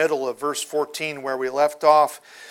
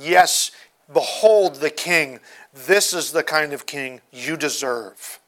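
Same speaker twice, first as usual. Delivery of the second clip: lightly voiced contemptuous Pilate, louder at the start; mocking; 6 dB louder than usual. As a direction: scorn the crowd with a sneering king title. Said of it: "in a mocking tone of voice".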